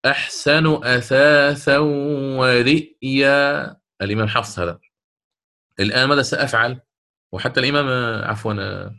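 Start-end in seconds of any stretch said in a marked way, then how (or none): 0.1-3.8 slow measured recitation with the hamza; Quran recitation. Shown as a demonstration. Teacher recites the verse as Hafs reads it, slowly. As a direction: recite it slowly, tajweed style.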